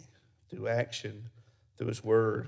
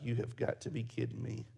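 muttered disbelief; 9 dB quieter than usual. Retold or imitated. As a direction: mutter in shock to yourself. Thinking the dog died.

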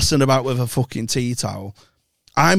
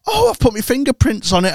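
mock gran voice; 9 semitones higher than usual. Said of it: "he'll go".

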